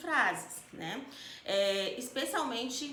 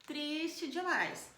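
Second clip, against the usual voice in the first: intensified sadness demo; 5 semitones higher, slower than usual. Shown as a demonstration. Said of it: "Tô, nossa".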